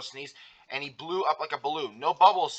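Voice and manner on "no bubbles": excited. Acted. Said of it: "said SpongeBob excitedly".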